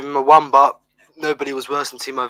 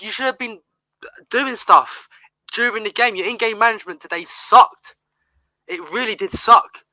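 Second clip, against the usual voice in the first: heated; 4 semitones higher than usual. Real, not acted. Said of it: "sorry for getting a bit heated".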